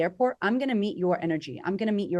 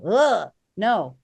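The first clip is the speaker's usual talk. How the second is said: louder, dismissive "Ugh, no"; disgusted refusal; 6 dB louder than usual. Pretend. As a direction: brush them off in disgust. People rejecting the needy.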